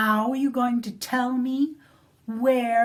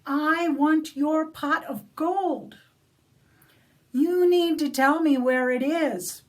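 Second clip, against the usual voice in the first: grab him and demand the gold, getting louder; angry demand; 4 semitones higher, 5 dB louder than usual. Acted. Cranky Molly shaking the leprechaun, loud angry demand. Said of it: "And she says".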